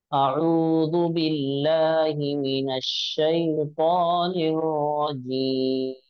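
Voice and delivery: slow, measured recitation. Shown as a demonstration. Teacher leading the class in slow recitation. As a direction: recite it slowly and carefully. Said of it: "अब मिलकर हम लोग सब पढ़ते हैं".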